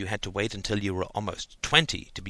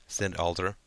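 ordinary delivery, nothing marked

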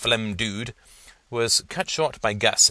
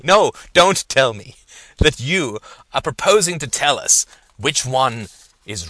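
alarmed protest; 5 semitones higher, 9 dB louder than usual. Acted. Professor stunned by thesis plan.

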